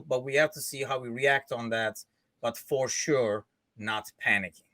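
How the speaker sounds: put-on mild Turkish accent on a read-out quote. Host quotes the manager on injured midfielders, Turkish accent. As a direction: read the statement in lightly Turkish-accented English. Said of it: "I'll do the Turkish accent".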